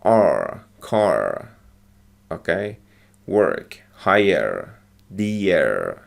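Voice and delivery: R, car, Work, hire, dear with a clear American R. Shown as a demonstration. Teacher shows American R sounds to students. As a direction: say each word with a strong American R. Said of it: "R is pronounced this way".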